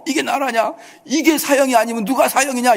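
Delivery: high-pitched indignant protest, imitated; mock outcry. Preacher imitating citizens protesting a light sentence, mock outcry. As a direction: mimic people making a fuss over a verdict. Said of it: "이러면서 난리를 치잖아요".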